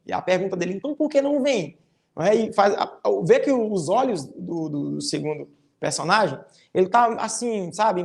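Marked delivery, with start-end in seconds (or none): 0.7-1.8 higher-pitched teasing question; mock challenge with irony; ironic. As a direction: lightly taunt the other character. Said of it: "é de uma fala irônica".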